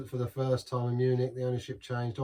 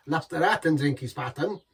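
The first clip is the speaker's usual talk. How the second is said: louder mock German; 4 semitones higher, 6 dB louder than usual. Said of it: "Terrible German accent there".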